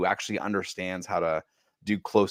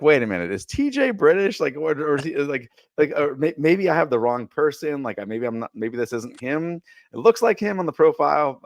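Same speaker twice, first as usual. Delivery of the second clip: higher-pitched retold double take; mock bewilderment, pitched up and stumbling over it; puzzled disbelief; 6 semitones higher, 4 dB louder than usual. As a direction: act out your baffled second-guessing. Acting out his confusion at the clip.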